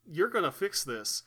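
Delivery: lightly voiced Texan TV scolder; a hint of a folksy talk-show telling-off; mock-stern lecture, pitched slightly up; Doctor Phil. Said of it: "I can't do the voice".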